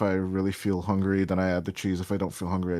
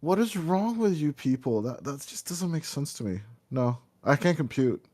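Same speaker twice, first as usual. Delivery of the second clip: high, baffled disbelief; exasperated, can't believe it; incredulous; 5 semitones higher than usual. Real, not acted. Baffled by banana combo.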